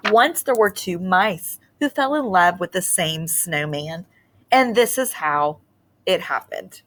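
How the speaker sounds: put-on lively read-aloud storytelling to children; story narration. A narrator's reading. Teacher reading a Christmas book to her class, expressive narration.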